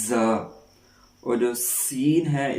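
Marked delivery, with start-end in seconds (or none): 0.1-0.3 زا pressed out firmly; a hard firm زا; firm za demo. Shown as a demonstration. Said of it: "تھوڑا سا سختی سے".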